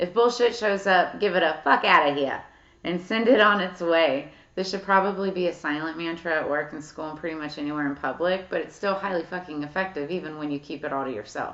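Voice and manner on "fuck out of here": put-on New Jersey accent, louder. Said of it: "Say it in a New Jersey accent".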